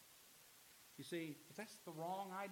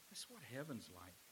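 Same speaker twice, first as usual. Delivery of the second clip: ordinary talk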